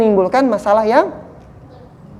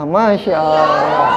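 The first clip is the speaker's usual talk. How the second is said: slow calm murmur; 5 semitones lower, much slower than usual. Shown as a demonstration. Teacher shows calm reply to anger.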